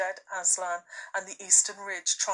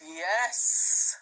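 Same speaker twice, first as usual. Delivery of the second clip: great lion voice; 5 dB louder than usual. A narrator's reading. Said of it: "said a great voice".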